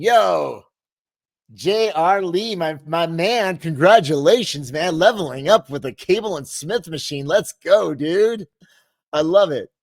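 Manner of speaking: loud, slow hype for a friend; excited shout-out. Real, not acted. Host hyping a viewer's new home gym, excited. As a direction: drag out his name, pumped.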